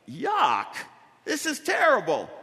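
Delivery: mock groan about the hail; grumbling fellow cyclist. Fellow rider in the hail moans to the preacher, lightly whiny.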